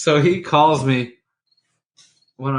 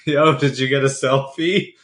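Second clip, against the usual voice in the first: laughing. Retold or imitated. Laughing at friend's fishing hook injury.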